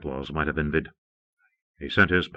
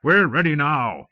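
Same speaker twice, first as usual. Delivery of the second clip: exploding angrily; 4 semitones higher than usual. Acted. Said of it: "The first magnate exploded".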